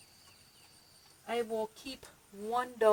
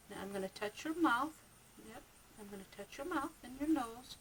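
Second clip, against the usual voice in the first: soothing a rabbit; 2 semitones higher, 6 dB quieter than usual. Real, not acted. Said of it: "the tone of my voice will help them, uh, relax".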